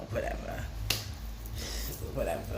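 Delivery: whispered dismissive whatever; quiet dismissive. Real, not acted. Grieving grandchild brushing off feelings, whispered. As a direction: shrug it off under your breath.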